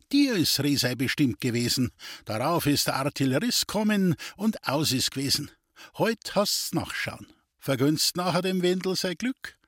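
a hint of a wheedling gypsy fortune-teller; sly gypsy. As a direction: tease him with the rival's luck. The gypsy Duli speaks.

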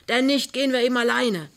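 loud bellowed also nein; roaring. A narrator's reading. Neighbour outside yelling at Pinneberg, loud roar. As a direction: bellow it through the closed door. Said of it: "brüllt Krümner draußen".

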